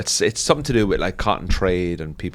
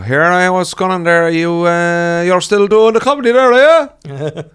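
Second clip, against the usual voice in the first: very high, loud Cork singsong; hammed-up Cork squeal; strong Cork accent; 10 semitones higher, 10 dB louder than usual. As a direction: mimic the locals back home in Cork. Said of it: "when I go home now, you just hear them".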